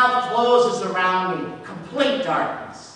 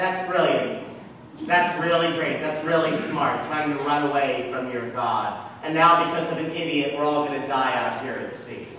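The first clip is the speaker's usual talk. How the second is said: low, dry mock praise; a lightly voiced sneering captain; sarcastic captain; 5 semitones lower than usual. Captain mocking the runaway Hebrew, low and sarcastic.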